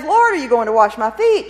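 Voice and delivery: astonished protest to his master; disbelieving exclamation. Acted. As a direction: blurt it out, stunned. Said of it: "In disbelief, Peter exclaims".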